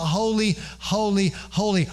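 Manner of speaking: a lightly acted seraphim call. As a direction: call each holy out high, one after another. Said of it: "they're calling out".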